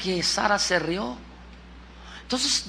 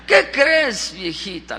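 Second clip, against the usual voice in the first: pregunta cariñosa; 4 dB louder, slower than usual. Acted. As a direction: confide it tenderly to an old wife. Repite la pregunta, más íntima. (pregunta suave y cariñosa)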